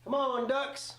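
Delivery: root hard for the comeback; cheering Ducks on. Real, not acted.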